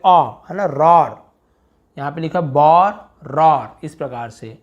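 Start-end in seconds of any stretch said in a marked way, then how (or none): 0.6-1.3 रॉर with an open 'aw' leaning to aa; रॉर said as RAWR, not 'rore'; open aa-like vowel. Shown as a demonstration. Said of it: "थोड़ा आ type से पढ़ते हैं".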